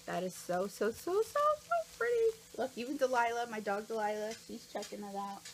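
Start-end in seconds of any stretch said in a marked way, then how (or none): 0.9-2.4 very high, loud squeal; squealing delight. Real, not acted. Showing the viewers the pretty gift, squealing.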